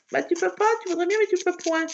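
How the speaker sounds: mock scolding. Answering her own mock tantrum.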